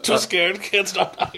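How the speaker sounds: mock Asian accent; fake Asian accent. Podcaster riffing on North Korea, fake Asian accent. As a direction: put on a joking Asian accent. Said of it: "talking in fake Asian accent".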